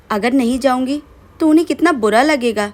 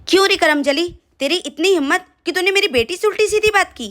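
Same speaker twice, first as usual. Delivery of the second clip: higher-pitched, scolding mother-in-law; angry scolding; 6 semitones higher than usual. Acted. Mother-in-law scolds her daughter-in-law for answering back to her daughter, angry. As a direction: tear into her for talking back.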